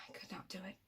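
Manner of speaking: very soft, low whisper; hushed refusal. Acted. Villain confessing he could not conform, whispered.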